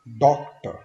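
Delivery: डॉक्टर loud, weight on डॉक; loud stress drill. Shown as a demonstration. Teacher drills डॉक्टर loudly for the class. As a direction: belt out डॉक्टर, punching डॉक. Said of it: "stress देना है".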